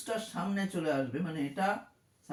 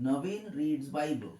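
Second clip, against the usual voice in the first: slow dictation; 3 semitones lower, slower than usual. Shown as a demonstration. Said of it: "বললাম suppose".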